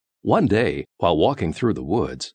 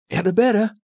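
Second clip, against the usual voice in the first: high call, held back from shouting; cautious call; 3 dB louder, faster than usual. A narrator's reading. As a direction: call out while creeping closer. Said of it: "they tiptoed to the egg and called".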